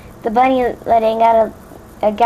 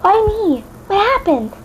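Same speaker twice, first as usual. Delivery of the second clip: higher, more anxious redo; Fluttershy asking Twilight, frantic and much higher; 9 semitones higher than usual. A narrator's reading. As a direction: push the panic further up. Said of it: "my voice is slightly cracking".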